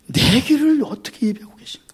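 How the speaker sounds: hushed unvoiced whisper. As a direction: lean in and whisper it. Preacher drops to whisper. (속삭이듯)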